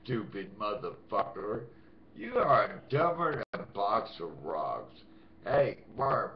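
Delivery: loud, contemptuous rant; angry insults. Real, not acted. Ranting at his stalker on camera, angry. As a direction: cut her down with scorn.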